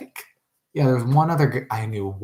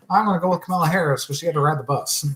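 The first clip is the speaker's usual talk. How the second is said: mock voter; 7 semitones higher than usual. Acting out another voter's opinion.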